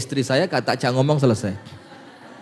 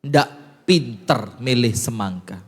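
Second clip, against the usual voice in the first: mock angry wife. Wife scolding her husband over a bad melon, mildly mock-angry. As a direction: lightly scold like an annoyed wife. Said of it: "maka istrinya marah".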